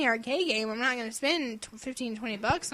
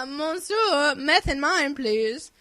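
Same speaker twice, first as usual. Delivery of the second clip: mock posh order; 3 semitones higher, 7 dB louder, much slower than usual. Jokingly orders drinks from servant.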